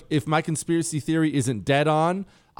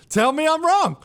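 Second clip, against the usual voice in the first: "Tell me I'm wrong" pushed up high and loud; louder repeat; 12 semitones higher, 5 dB louder than usual. Real, not acted. Radio host daring listeners, insisting louder. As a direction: challenge the audience, voice rising.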